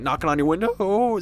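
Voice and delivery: imitated long crack on WINDOW; drawn-out voice crack. Vlogger mimics classmate's lasting slip, drawn-out voice crack. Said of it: "it lasted over multiple syllabi or syllabuses".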